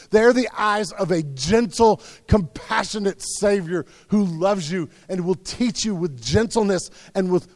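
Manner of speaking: usual speaking voice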